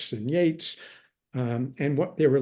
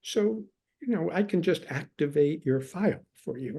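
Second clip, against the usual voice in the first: a lightly voiced sweet secretary, pitch lifted; gently imitating a sweet, helpful secretary; sweetly; 4 semitones higher than usual. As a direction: retell her kind, sugary reassurance, lightly imitated. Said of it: "very sweetly".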